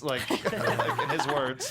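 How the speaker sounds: laughing through the words; amused, half laughing. Real, not acted. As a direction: giggle as you quote him. Quoting friend while laughing.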